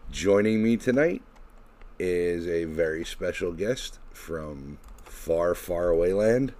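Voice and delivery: showman host announcing over music; ringmaster. Acted. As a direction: welcome the crowd like a circus ringmaster. Podcast host ringmaster intro.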